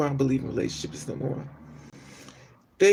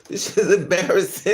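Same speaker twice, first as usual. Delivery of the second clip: laughing; 3 semitones higher, 4 dB louder than usual. Real, not acted. Laughing at own story.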